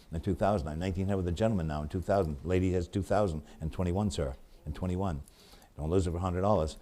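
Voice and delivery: rapid rhythmic run of bid numbers; auctioneer bid calling. Acted. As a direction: keep the bids rolling like an auctioneer.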